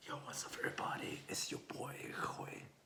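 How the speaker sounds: hushed, whispered, very quiet. Greeting everybody at the start of the video: whispering. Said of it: "Why the fuck am I whispering?".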